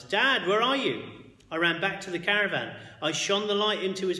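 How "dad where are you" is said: loud, higher shout; a frightened boy shouts for his father, loud. A narrator's reading. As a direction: call it hard into the dark. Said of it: "I shouted in the darkness".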